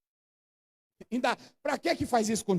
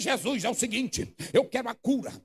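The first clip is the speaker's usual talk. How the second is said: mock bargaining. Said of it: "aí ele diz".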